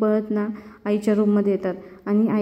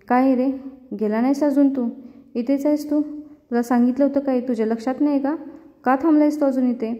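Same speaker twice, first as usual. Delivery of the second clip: angry scolding; 3 semitones higher than usual. Acted. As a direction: tell him off for still being here. Niki scolds him for staying. (चिडून रागावलेला आवाज)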